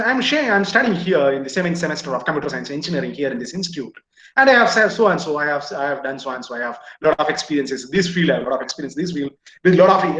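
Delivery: confident candidate intro; lively self-introduction; energetic answer. Shown as a demonstration. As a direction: answer brightly with hand gestures. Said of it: "if you respond like this".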